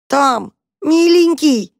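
high, slow, wailing plea; trapped cat calling desperately; desperate cry for help. Acted. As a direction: cry out for rescue from far off. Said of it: "раздалось в парнике".

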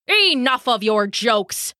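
mildly angry snarled order. Acted. Thor fed up with Loki's jokes, snarl. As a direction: cut him off with a snarl. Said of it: "Thor snarled".

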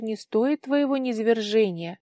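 ordinary delivery

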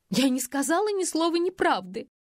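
high sobbing denial, «сказала» pushed up high. A narrator's reading. Faina sobs out her denial to Vilka, high and tearful. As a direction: voice breaking on «Я не сказала ни слова неправды». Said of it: "всхлипнула Фая".

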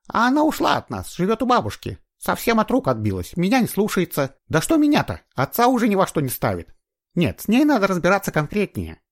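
a mother griping about her runaway daughter; complaining mother. A narrator's reading. Мать жалуется на дочь. (мать жалуется на дочь, высоко и громко)

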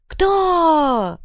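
high loud yell. Acted. Fighter yelling at Bulyzhnik. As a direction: scream the question. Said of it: "завопил боец".

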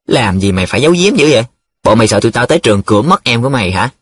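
quick, mildly peeved complaint; grumbling. Acted. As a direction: grumble it out fast. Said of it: "Nhiệm nhăn nhó". (nhăn nhó, cằn nhằn)

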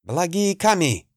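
high, sudden cry of dismay; startled exclamation. Acted. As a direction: blurt it out in shock. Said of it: "смог лишь воскликнуть".

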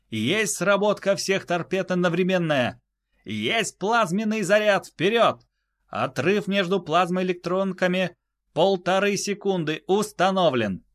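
high crisp readback; high confirming voice. Acted. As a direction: repeat the orders back sharply. Crew repeats back orders.

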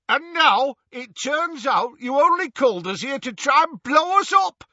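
loud, high furious roar. A narrator's reading. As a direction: roar it as an angry accusation. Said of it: "roared the Death Eater".

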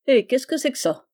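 Yann's puzzled question at the ring; a mild touch of surprise; surprised. A narrator's reading. Yann finds a ring in the grass, surprised. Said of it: "avec une mine étonnée".

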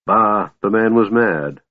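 slow, scornful sniff of a line; sniffing dismissal. Acted. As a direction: brush it off as nonsense, slowly. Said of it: "Lord Amathus sniffed".

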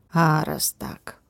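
slow, breathy menace; slow whisper. Acted. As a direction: let it hang, slow and hushed.

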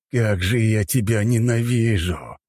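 slow, venomous hatred; hateful. A narrator's reading. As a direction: hiss the hatred at him. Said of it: "лицо его перекосило от злобы".

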